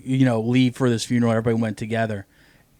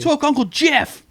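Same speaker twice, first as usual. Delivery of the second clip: high mock scream at the fire; primal scream; 14 semitones higher, 4 dB louder than usual. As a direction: yell it up high, hammed-up.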